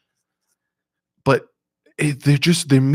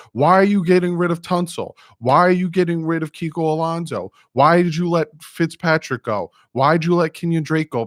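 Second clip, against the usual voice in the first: mocking critics; 3 semitones higher than usual. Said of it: "Everyone was talking about it".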